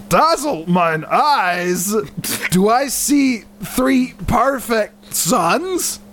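slow, hammed-up Scottish ogre; badly faked Scottish accent; Scottish Shrek. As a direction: attempt a Scottish Shrek, drawing out the verse. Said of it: "trying to do the Scottish Shrek thing".

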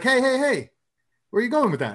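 a shopper stops him, demanding where he's going; lady calling out. Retold or imitated. Shopper catching a cart thief, calling out.

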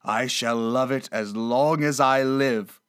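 slow, savored declaration of delight; drawn-out, fond exclamation; heartfelt cry. Acted. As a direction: cry it out slowly with mild fervor. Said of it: "cried Scrooge".

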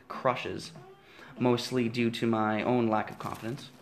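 solemn, measured reading voice; dramatic reading. Acted. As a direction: read it like a grave literary passage. Reads his book passage aloud.

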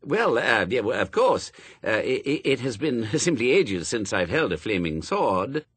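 stammering, halting excuse; flustered angel. Acted. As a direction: bluster politely with false starts.

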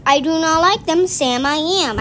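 underwater voice. Pretend. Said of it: "this cool voice 'cause he's underwater".

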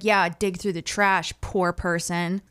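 slow, low, mock snooty sneer; condescending rich guy. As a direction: talk down to a poor person. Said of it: "He's like".

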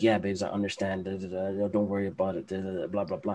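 low, soft soothing patter; mock comforting. Woman soothing her upset man, mock comforting. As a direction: murmur rote reassurance, trailing into filler. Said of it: "be there as an emotional support".

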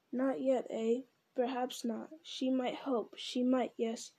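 lightly voiced hissing creature arguing with itself; creepy split-self Gollum muttering. Gollum plotting aloud.

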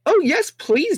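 put-on very high, girlish squeal; high-pitched princess glee; delighted squeal. A narrator's reading. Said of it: "Daisy squealed with delight".

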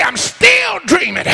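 loud holler. Shown as a demonstration. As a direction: belt it out so the whole church hears. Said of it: "I didn't hear you. Say".

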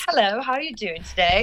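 imitated British accent; mock British accent greeting. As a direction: mimic a lightly put-on British accent. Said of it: "like, British accents".

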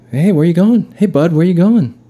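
high, loud jock coach voice; Vince Vaughn coach. Retold or imitated. Brother doing a Vince Vaughn coach to Peaches. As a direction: call out like a pushy Little League coach. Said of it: "like he's Vince Vaughn, or like a Little League coach".

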